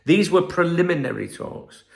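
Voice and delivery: a hint of an official club statement; lightly pompous disclaimer; mock club disclaimer. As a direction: read it like a PR line. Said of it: "Here's your disclaimer again".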